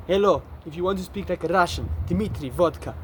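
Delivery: mock Russian accent; lightly hammed-up Russian accent. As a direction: put on a playful Russian accent. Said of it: "I started making this Russian accent".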